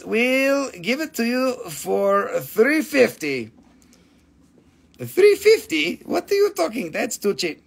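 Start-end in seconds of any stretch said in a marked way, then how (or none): 5.2-7.6 mock shock. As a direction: gasp it out like the price is outrageous. Seller feigns shock at own price.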